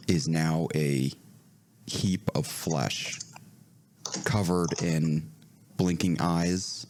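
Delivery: slow, ominous game master description; slow eerie scene setting. Acted. Game master describes the flesh heap to players, slow and ominous. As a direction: draw out the horror, word by word.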